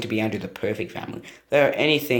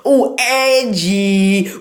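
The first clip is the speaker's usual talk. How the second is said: sarcastic; 7 semitones higher, 6 dB louder, much slower than usual. Pretend. Mocking the edgy title.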